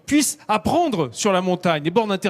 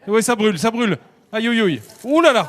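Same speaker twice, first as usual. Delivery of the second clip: alarmed cry as the flames rise; startled exclamation; 3 semitones higher than usual. Real, not acted. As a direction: yelp in surprise at the fire. Pan bursts into flames.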